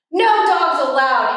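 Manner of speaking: grumpy yell. Acted. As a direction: snap it at the coyote. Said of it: "Hank yelled".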